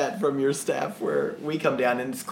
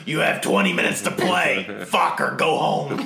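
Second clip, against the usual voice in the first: mock announcement; 4 dB louder than usual. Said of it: "at two thirty you're like".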